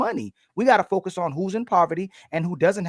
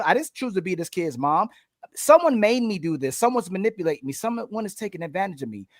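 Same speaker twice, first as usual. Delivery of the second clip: higher voice, aggrieved and self-pitying; mocking complaining woman; 3 semitones higher than usual. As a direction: play a whiny complaining woman. Voicing complaining women on panel.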